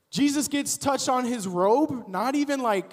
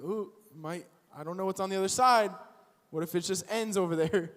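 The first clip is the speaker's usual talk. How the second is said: mock scared animal; 2 semitones lower, 4 dB quieter than usual. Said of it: "it's scared".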